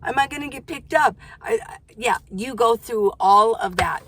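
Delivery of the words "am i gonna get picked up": nervous inner voice. Retold or imitated. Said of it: "'cause you think".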